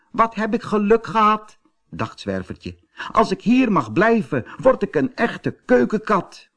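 high little cat voice, relieved and glad; happy kitten voice. A narrator's reading. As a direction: dream aloud like a lucky kitten. Kitten voice in the story.

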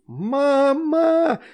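very high, loud call. A narrator's reading. Astrid calling mom across the yard, very loud and high. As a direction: scream for mom at full volume. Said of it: "заорала ещё громче Астрид".

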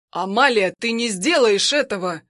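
loud, urgent cry to stop her; alarmed shout. Acted. Husband shouts at the woman holding a gun, urgent and loud.

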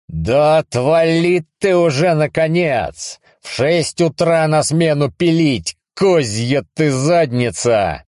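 angry yell. Acted. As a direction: lash out at the pest, drawn out. Yelling at the voice.

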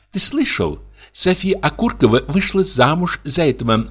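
high, eager gossip voice; gossiping wife. Acted. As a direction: dish the gossip.

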